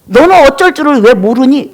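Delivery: lightly acted taunting questions; understated jeering, question after question; mocking. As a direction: needle a stricken friend with mild scorn. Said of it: "말로 비웃는 거예요".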